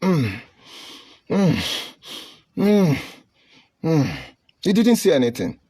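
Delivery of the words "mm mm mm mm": quiet groans. Retold or imitated. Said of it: "making some passive noise".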